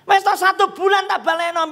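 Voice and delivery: high-pitched mock pleading; tearful begging. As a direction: imitate a borrower begging through tears. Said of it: "mbek nangis-nangis".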